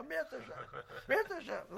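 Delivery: Mirtz Hashem squeaked high and soft through laughter; mock the sign's Mirtz Hashem, high, laughing and hushed; laughing mock reading. Teacher mimicking the shop sign, laughing high and soft. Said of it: "the guy was laughing".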